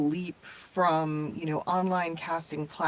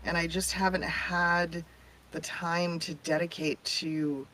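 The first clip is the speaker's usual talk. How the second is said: tinny, metallic tin can audio; tin can sound. Real, not acted. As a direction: voice like it's coming from a tin can. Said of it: "I know it sounds like I'm in a, a tin can of some sort".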